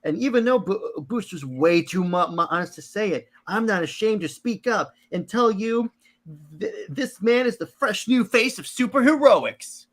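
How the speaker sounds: high-pitched, earnest promoter; Skeets. Acted. Sidekick hyping up Booster Gold, high perky voice. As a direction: talk up your hero in a high, perky voice. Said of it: "I'm gonna be Skeets".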